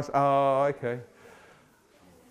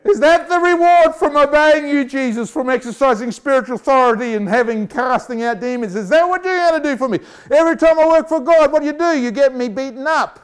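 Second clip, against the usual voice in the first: complaining to Jesus; 5 semitones higher than usual. Retold or imitated. Preacher voicing a beaten believer whining to Jesus. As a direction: whine at Jesus, aggrieved.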